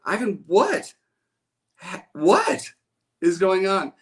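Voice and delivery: high mock-bewildered teacher; teacher asking. Teacher quizzing the calmed-down boy, high and puzzled. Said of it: "and she goes".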